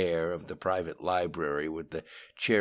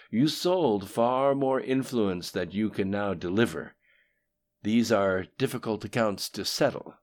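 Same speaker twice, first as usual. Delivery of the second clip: coldly; 4 semitones higher, 6 dB louder than usual. A narrator's reading. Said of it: "said Lim Shun coldly".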